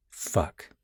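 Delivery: breathless whispered swear; whispered curse. A narrator's reading. Narrator reading a threat note, whispering in dread. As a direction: let it slip under your breath.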